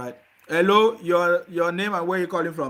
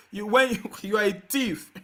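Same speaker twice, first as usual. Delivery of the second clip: laughing; 4 dB quieter than usual. Real, not acted. Host laughs at caller.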